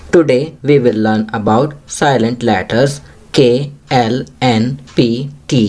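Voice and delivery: very slow, deliberate classroom reading; teacher's slow read-aloud; slow instruction reading. Shown as a demonstration. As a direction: read each English word slowly for young learners. Teacher reads English instruction.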